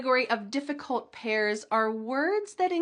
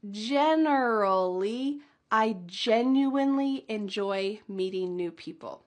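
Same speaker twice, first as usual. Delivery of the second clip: slow practice pace. Shown as a demonstration. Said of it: "Let's say it a little bit slow".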